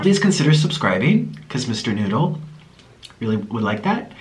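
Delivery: usual speaking voice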